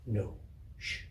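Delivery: quiet, soothing grandmother; soft hush. Acted. Grandmother hushing Kezia to sleep, quiet and soothing. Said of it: "grandmother settling child".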